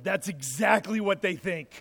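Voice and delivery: says it through a laugh; amused, laughing as she agrees; laughing mom. Retold or imitated. Mom laughing as she answers the joke about Santa and his elf. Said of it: "boys' mom turned around and said".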